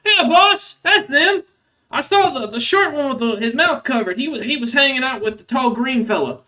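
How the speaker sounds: high-pitched, eager troll underling; smaller troll henchman. Acted. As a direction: report to the boss in a high voice, loud at first. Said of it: "One of the smaller trolls".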